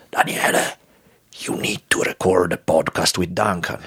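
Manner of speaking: usual speaking voice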